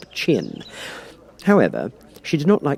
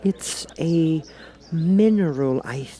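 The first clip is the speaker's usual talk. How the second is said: put-on high, unsure girl's voice; Alice, higher, unsure; 7 semitones higher, much slower than usual. A narrator's reading. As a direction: guess hesitantly. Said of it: "said Alice".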